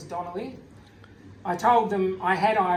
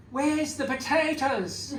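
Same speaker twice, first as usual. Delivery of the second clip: higher, slow, laughing mock grief; mock dismay; 6 semitones higher, slower than usual. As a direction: wail it like a heartbroken old friar, hamming it up. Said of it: "the grief-stricken look on my novice master Paddy's face".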